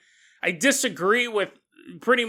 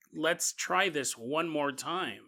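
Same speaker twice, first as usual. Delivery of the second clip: gentle encouragement; 6 dB quieter, slower than usual. Acted. Voicing humanity's patient encouragement.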